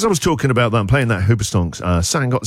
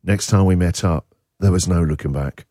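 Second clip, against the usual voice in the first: lower, measured romantic reading; solemn text read-out; 5 semitones lower than usual. Acted. Host finishing a listener's love story, low solemn read-out. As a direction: land it like a love story's ending.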